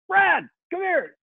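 drawn-out high call across the bus. Retold or imitated. Band member on the bus calls Brad over, high and slow.

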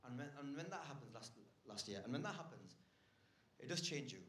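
low, hushed, grave delivery; mock-sombre confession. Comedian confiding a pandemic loss, mock-sombre and quiet. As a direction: confide a loss softly, setting up a joke. Sombre fake-out story of losing someone.

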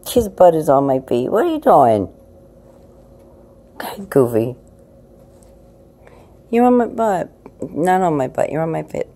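high, loud teasing pet talk; playfully scolding the cat. Real, not acted. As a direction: tease the cat for sitting on you.

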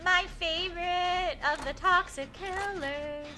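slow, high, drawn-out cooing; singsong teasing affection; mock fondness. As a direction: stretch it out adoringly. Cooing fondly about favourite killer.

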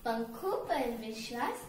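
measured, lilting verse reading; poem recitation. Acted. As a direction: recite it as an opening couplet, with pauses.

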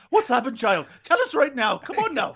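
mock old man shouting. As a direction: hammer the scared kid with questions. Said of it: "just fucking screaming in his face".

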